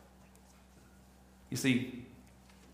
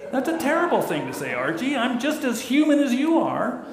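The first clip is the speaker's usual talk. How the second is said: much higher, fast protesting wife; Edith Bunker voice; 10 semitones higher, 4 dB louder than usual. Retold or imitated. Wife Edith protests to Archie, much higher and fast. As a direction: squeak it out like Edith. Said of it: "I wish I could do her voice".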